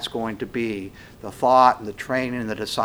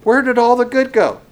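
booming question; 10 semitones higher, 7 dB louder than usual. Acted. Rhetorical preaching question.

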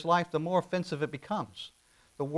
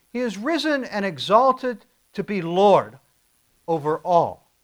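slower, higher and louder, ringing it out; brighter proclamation; 4 semitones higher, 7 dB louder, slower than usual. Shown as a demonstration. Pastor lifts the phrase for the congregation, bright and loud. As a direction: proclaim it like good news. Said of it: "That's a little bit brighter, isn't it?".

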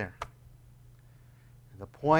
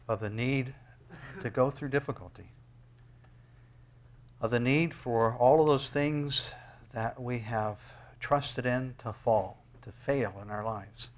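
closing prayer. Acted.

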